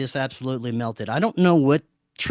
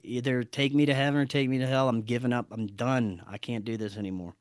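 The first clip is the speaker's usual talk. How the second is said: resigned surrender; 3 semitones lower, 6 dB quieter than usual. Retold or imitated. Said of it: "I'm going to surrender".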